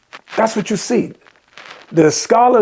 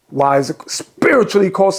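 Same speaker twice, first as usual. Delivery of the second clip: usual speaking voice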